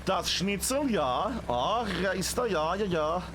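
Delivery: lightly put-on German accent; a playful hint of a German accent, ja ja. Caster jokes about player Schnitzel in German accent. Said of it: "I'm doing a German accent there".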